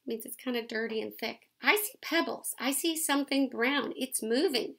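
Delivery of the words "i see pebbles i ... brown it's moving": excited call. A narrator's reading. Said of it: "shouted Buddy".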